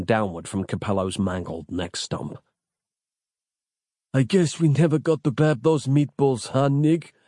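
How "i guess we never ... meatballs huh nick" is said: hoarse dying croak. A narrator's reading. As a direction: croak it out weakly. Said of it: "croaked Capello".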